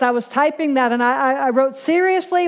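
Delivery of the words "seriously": higher-pitched disbelieving question; incredulous exclamation. Retold or imitated. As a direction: exclaim it in mild protest. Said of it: "with an exclamation point".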